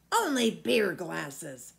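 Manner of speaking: lightly voiced old giant, loud and slow; a big old giant savouring the thought of food; an old giant relishing a juicy boy.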